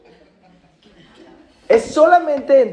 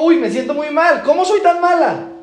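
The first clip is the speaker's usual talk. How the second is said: guilt-ridden mother; 8 semitones higher, 4 dB louder than usual. Retold or imitated.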